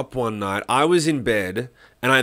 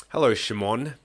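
low, quiet, unbothered hello; calm teacher greeting; 3 semitones lower, 5 dB quieter than usual. Retold or imitated. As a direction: greet him coolly, like nothing happened. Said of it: "I just remember the way he".

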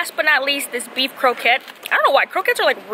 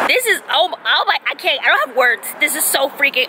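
mouth full. Real, not acted. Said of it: "I just spit on the camera".

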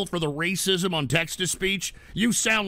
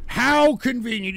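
sarcastic; 5 semitones higher, 5 dB louder than usual. Real, not acted. Sarcastic jab repeated.

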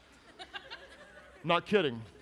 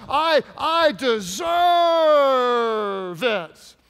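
drawn-out, higher, louder mock demand; mock entitled shout; 4 semitones higher, 6 dB louder, slower than usual. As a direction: shout the claim like a spoiled man. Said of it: "You know, whatever".

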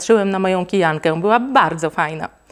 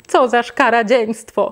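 slowed, mildly raised cry of disgust; mother recoils from the tadpole, mild mock yell; mock shriek of disgust; 3 semitones higher, slower than usual. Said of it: "krzyknęła".

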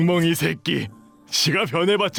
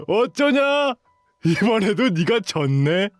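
gloating; 3 semitones higher than usual. Acted. Bully mocking the loser, gloating lilt. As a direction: rub the defeat in, singsong.

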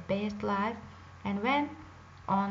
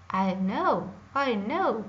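witch voice; 5 dB louder than usual. Acted. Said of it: "said Baba Yaga".

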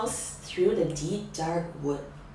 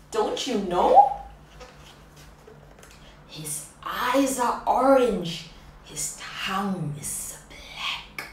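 spooky mouse; 2 semitones higher, 7 dB louder than usual. Acted. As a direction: spin the creepy details. Mouse describes the monster.

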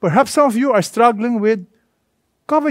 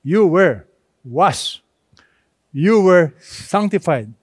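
slow emphatic reading; slower than usual. Shown as a demonstration. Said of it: "I want you to focus on".

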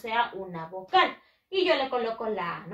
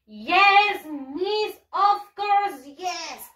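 high, sing-song schoolchild reply; eager pupils' answer; 5 semitones higher, 4 dB louder, much slower than usual. Acted. Teacher voicing pupils answering Miss, eager and sing-song. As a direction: answer like a keen class in chorus.

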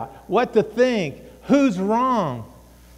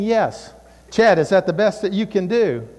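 lightly voiced dad, firm; a hint of stern father; dad's voice. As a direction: firmly challenge a child's effort. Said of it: "Dad would be saying".

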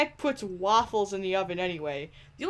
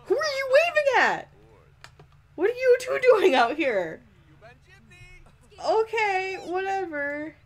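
much higher, louder incredulous nagging; high exasperation; 5 semitones higher, 3 dB louder than usual. Real, not acted. Player nagging Sims about dishes, high exasperation. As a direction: nag them in disbelief.

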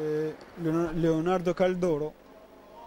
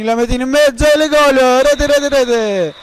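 breathless italian goal commentary. Real, not acted. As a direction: chant the goal out. Live goal call in match.

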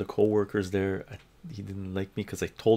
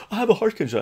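mocking whiny voice; 10 semitones higher, 4 dB louder, much faster than usual. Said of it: "the guy who came up and said".

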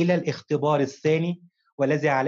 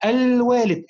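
"الوالد" with the opening "al" held long and raised; stress on the article; 6 semitones higher, 4 dB louder, slower than usual. Shown as a demonstration. Teacher shows pupil the lunar article, "al" in "الوالد" stressed high. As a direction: punch and stretch the "al" in "الوالد". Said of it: "الوالد بها القمرية".

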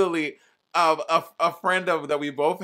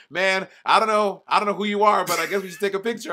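put-on older dude; 4 semitones higher, 3 dB louder than usual. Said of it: "He'll be like".

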